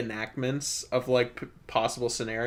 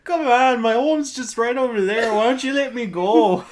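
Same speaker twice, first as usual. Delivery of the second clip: put-on higher, louder pleading drunk; mock drunk plea; 9 semitones higher, 7 dB louder than usual. Drunk driver pleading with the cop, loud and hammed. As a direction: beg loudly to be let go. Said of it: "he's like".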